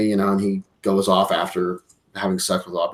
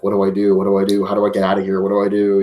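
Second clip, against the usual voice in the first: low muttered mock panic, run together; mock nervous; 3 semitones lower, much faster than usual. Retelling the kid eyeing the gift-wrapped head, mock nervous. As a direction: fret under your breath, repeating yourself. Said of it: "nervous sequences where he's just constantly looking".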